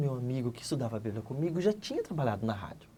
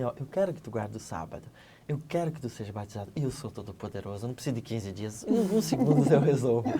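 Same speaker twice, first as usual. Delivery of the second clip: a hint of a lower, calm divine voice; voice of God; 5 semitones lower than usual. God answering the impatient believer, lightly lower. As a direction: speak as God, lower and settled. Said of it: "Deus esperou o último segundo pra dizer assim".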